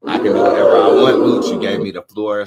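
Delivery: loud defiant retort; indignant shout. Acted. The speaker shouting back at the host, defiant and loud. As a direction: yell it back, claiming the floor.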